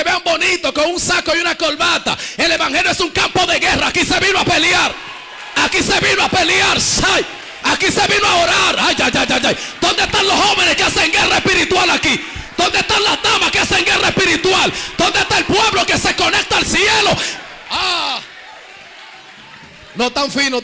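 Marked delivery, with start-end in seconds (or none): 3.9-8.8 a battle cry from the pulpit; rising shout. Real, not acted. Preacher rousing the church, shouting. 9.8-17.1 rally the room like a general; calling out. Real, not acted. Preacher calling out the young and the ladies, shouting.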